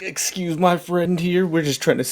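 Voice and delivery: placating in-character request; polite apology. Acted. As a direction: step in meekly to excuse a friend. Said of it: "I'm just like".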